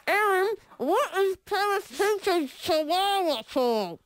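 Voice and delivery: talking through a mouthful of bread; words pushed past sticky dough; mouth full. Real, not acted. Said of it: "it really is sticking to the roof of my mouth".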